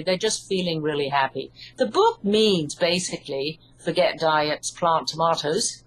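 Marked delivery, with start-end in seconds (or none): 4.7-5.8 English pronunciation of plant and tomatoes; English accent. Shown as a demonstration. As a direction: plant tomatoes with a British broad ah, plahnt tomahtoes. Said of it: "plant tomatoes in my English accent".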